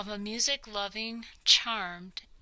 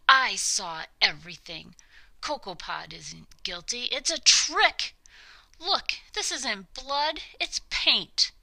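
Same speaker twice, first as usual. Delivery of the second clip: put-on clear young girl; 5 dB louder than usual. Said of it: "a young girl's voice, clear and wise".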